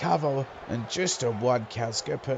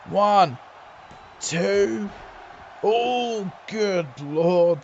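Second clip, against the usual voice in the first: excited pin count; 5 semitones higher, much slower than usual. Real, not acted. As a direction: count it up with tension.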